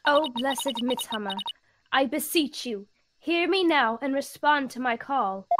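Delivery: lightly voiced reverent invocation; measured, ceremonial plea to a spirit; solemn priestess. Priestess beseeching the blessed Mitama, solemn invocation.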